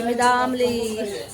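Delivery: put-on slow, drawn-out toddler whine of दामले; imitating little Mau. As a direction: stretch मी दामले like a tired small child. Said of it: "माऊ अशी बोलायची". (लहान माऊची हलकी नक्कल, सावकाश)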